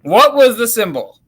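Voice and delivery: thin sound through a laptop microphone; asked into the built-in laptop mic. Real, not acted. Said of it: "Sounds like your laptop mic to me".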